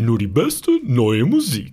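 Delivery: slow, dramatic announcer voice; movie trailer voice. Acted. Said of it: "Was war das denn für eine Stimme?".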